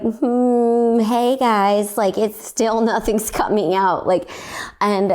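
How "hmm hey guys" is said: high, strained voiceless try; straining to speak with a lost voice; lost voice demo. Shown as a demonstration. Showing the speech therapist she cannot make sound. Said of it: "if I go like ... nothing's coming out".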